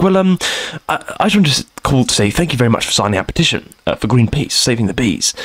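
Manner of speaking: lightly imitated posh gent, low-pitched; posh caller voice. Charity caller thanking a petition signer, mildly posh imitation. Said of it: "was it Boris Johnson on the other end?".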